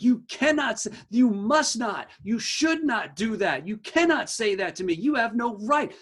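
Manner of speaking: mock an angry child laying down rules; angry kid. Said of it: "He's saying things like".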